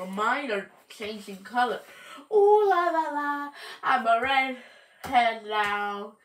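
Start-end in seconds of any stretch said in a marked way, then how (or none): 2.3-6.2 high sing-song showing off; flirty. Acted. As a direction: preen over your new red colour. Showing off red leaves.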